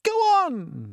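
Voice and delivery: high, loud frantic plea; frantic cry. Acted. Creatures begging James to hurry, frantic cry. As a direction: beg them to hurry, frantic. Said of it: "they cried frantically".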